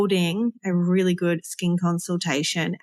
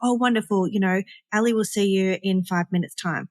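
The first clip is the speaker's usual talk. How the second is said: welcoming reception greeting. Shown as a demonstration. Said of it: "You're gonna go".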